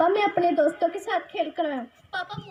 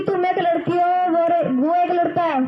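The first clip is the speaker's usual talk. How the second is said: stern raised voice; loud scolding; 6 dB louder than usual. Acted. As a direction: bark it at her firmly. Father refuses daughter, scolding.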